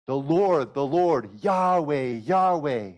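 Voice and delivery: loud, solemn calling out of the name; solemn proclamation. Acted. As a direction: proclaim it like a herald. Proclaiming God's name from Exodus.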